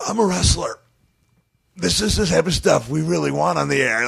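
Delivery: pleading to keep the footage; eager protest. Retold or imitated. Wrestler telling the director to air it, high eager plea. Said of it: "And I said".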